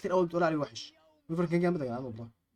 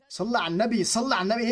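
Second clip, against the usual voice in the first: raised pitch, exasperated insistence; 4 semitones higher, 3 dB louder than usual. Real, not acted. Gamer losing patience with the game, exasperated. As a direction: let the frustration push the voice up. Same phrase, exasperation bursts out.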